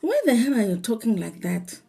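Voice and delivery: incredulous, laughing by the end; amused disbelief. Retold or imitated. Vlogger reacting to a woman's odd accent, amused disbelief. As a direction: question it in mock bafflement.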